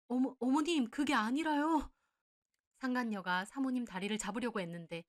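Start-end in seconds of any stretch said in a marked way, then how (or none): 0.1-1.9 higher, slow, desperate plea; panicked pleading. Acted. Mistress pleading with her future mother-in-law, panicked. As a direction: beg her to listen, flustered.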